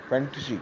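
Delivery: فینٹیسی said the English way, fan-ta-see; English pronunciation. Shown as a demonstration. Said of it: "یعنی انگریزی تلفظ میں". (فینٹیسی انگریزی تلفظ میں)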